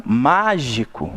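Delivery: mágico slow, with long stressed MÁ; stressed first syllable. Shown as a demonstration. Teacher shows the second word, slow stress on MÁ. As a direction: stretch the MÁ of mágico. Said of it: "Olha a segunda palavrinha".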